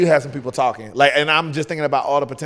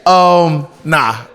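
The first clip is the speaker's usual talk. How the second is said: put-on loud, high Southern accent bursting through; 8 semitones higher, 12 dB louder than usual. Guest failing to hold the British accent, slipping into loud Southern. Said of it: "my Southern's coming back".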